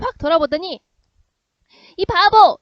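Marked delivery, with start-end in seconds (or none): 2.0-2.6 put-on high, loud playful taunt from a girl; girl shouting teasingly. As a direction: yell it at the shy boy, teasing. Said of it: "이렇게 했다".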